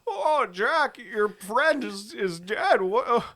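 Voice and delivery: high squeaky panicked bug. Retold or imitated. Retelling the bug's panicked lines.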